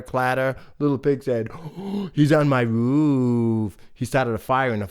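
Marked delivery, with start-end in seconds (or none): 1.5-3.8 alarmed gasp. Acted. Pig alarmed.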